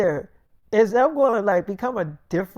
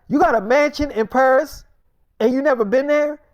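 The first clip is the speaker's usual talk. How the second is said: higher, louder disbelieving question; can't believe what she just heard; surprised question; 5 semitones higher, 5 dB louder than usual. Retold or imitated. Partner shocked by mansion news.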